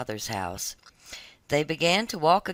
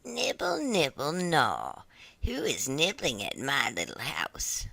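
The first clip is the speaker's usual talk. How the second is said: unvoiced, breathy hidden whisper; eerie soft whisper from the parlour; 5 dB quieter than usual. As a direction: whisper it from inside the house. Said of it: "a soft voice cried".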